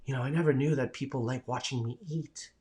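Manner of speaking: a light, understated take on a fellow streamer; Johnny Kimchi impression. Streamer imitating a friend's first-stream remark, lightly voiced. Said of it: "that's my impression of him".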